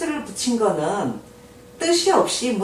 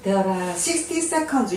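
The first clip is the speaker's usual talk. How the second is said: very slow, every word laid out; slow model reading; much slower than usual. Shown as a demonstration. Teacher to Korean learners, slow model reading. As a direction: spell it out slowly for learners. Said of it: "teacher models English sentence".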